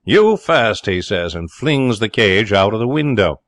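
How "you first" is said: high, loud snap; fierce order. A narrator's reading. Jerry throwing out the parrot, fierce. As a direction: pounce on the words, fed up.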